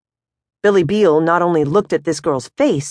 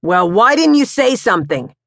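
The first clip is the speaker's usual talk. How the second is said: a hint of a grumpy husband, higher; annoyed Pops; 5 semitones higher, 3 dB louder than usual. Pops to his wife about the keys, mildly irritated. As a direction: brush her off grumpily. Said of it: "Pops says, barreling past her".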